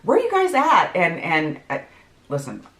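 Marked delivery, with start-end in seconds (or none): 0.0-0.9 high, louder imitation of a worried mom; mock fretful texting voice, pitched up; tripping out. Daughter imitating mom's anxious texts, tripping out. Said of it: "like, tripping out".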